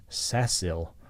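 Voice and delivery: "Cecil" with an s sound at the start; name Cecil. Shown as a demonstration. Teacher showing how C sounds in Cecil. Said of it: "But in this sample".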